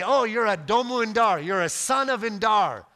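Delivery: high and loud, playfully delighted; delighted locals. Retold or imitated. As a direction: mimic the locals' happy exclamation. Locals' delighted reply, retold.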